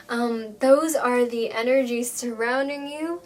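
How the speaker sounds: winded after talking; slightly short of breath. Real, not acted. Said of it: "Whew, I am winded".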